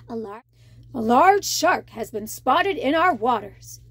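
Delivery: deep, stern royal warning; warning king. Acted. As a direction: warn them like a stern king. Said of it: "King Triton warned".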